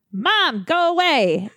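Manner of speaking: high strained plea; pleading to go away. Retold or imitated. Telling her dead mom at the door to go, high pleading.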